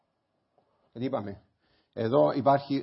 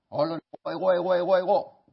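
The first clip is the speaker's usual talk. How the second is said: mocking me-me-me; 4 semitones higher, 5 dB louder than usual. Mocking self-centred person.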